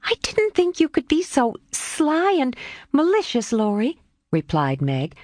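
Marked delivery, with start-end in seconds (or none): 0.0-4.0 a lightly voiced, gently scolding young woman; a touch of grave reproach; gravely reproachful. A narrator's reading. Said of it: "gravely reproachful air".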